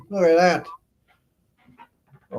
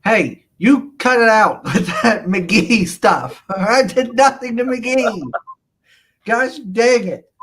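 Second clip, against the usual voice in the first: mock outrage; 5 semitones higher, 6 dB louder, slower than usual. Mock outrage over McGee teasing.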